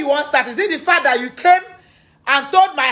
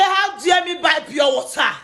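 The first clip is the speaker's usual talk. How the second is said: imitating her shouted outrage; mock shout; 5 semitones higher than usual. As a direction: throw her words back at her with a shout. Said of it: "You say".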